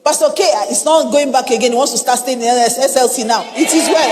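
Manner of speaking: mock-pitying report capped by "it is well"; mock resigned lament. Preacher mimics church folk over a pastor's move, mock resigned. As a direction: imitate helpless churchgoers lamenting. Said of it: "That's how we use "It is well".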